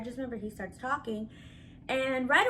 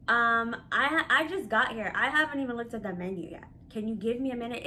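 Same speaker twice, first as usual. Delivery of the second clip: snippy and rude. Retold or imitated. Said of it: "snippety and rude".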